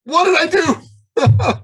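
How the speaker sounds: high, slow, loud comic panic; mock panic. Man seeing a crying woman, in mock high-pitched panic. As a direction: play up a man's helpless alarm. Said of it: "I panic".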